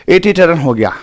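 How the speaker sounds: put-on एटी said for एकी, a lisping child's version. Shown as a demonstration. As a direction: lisp एकीकरण into एटी टर्न like a child. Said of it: "जैसे तोतला तो वो क्या बोलेगा?".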